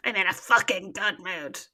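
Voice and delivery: slow, hammed-up weepy mimicry; drawn-out teasing sob-voice; mock tearful imitation. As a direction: mimic her crying while claiming to be fine. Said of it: "you definitely sound like you're in a good mood".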